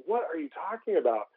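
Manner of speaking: touch of playful astonishment; mock disbelief. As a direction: lightly act out a doubting kid. Kids disbelieve the boy's claim.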